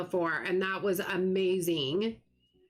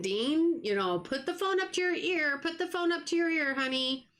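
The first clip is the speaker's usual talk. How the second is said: retold coaxing; 6 semitones higher than usual. Coaxing son over phone.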